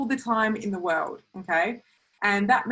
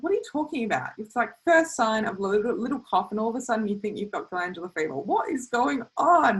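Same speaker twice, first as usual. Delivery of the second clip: incredulous; 3 semitones higher than usual. Retold or imitated. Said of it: "I probably said it like that as well".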